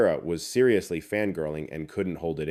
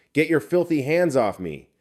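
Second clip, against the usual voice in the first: high, loud disgusted yell; "Get your filthy hands off me" yelled high and loud; angry shout; 8 semitones higher, 5 dB louder than usual. Acted. Girl shakes off boyfriend, second take.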